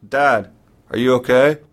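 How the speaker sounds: urgent. Retold or imitated. Son repeats, more urgent.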